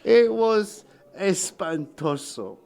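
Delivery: high laughing, slow words. Real, not acted. Recalling the korma walk, laughing slowly. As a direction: laugh through the word.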